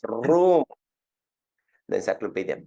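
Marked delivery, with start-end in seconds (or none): 0.1-0.6 high, loud "vroom" sound effect; imitated whoosh. Salesman flourishing his book open, imitated whoosh. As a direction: swoosh the book open with your voice.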